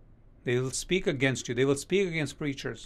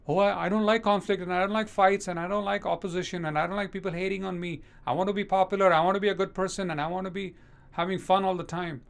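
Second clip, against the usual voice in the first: whiny reluctant believer; 5 semitones higher than usual. Retold or imitated. Mocking a comfort-seeking believer.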